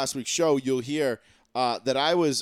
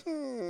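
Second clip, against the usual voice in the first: mock thinking hum; 9 semitones higher, 9 dB quieter than usual. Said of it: "think about it and be like".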